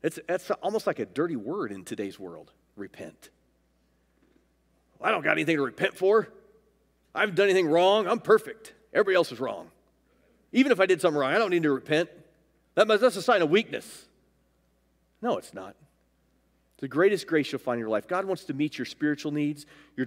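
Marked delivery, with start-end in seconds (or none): 5.0-14.1 mock defensive protest; defiant self-justifier. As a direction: push back as if you are blameless. Voicing a person who refuses to repent.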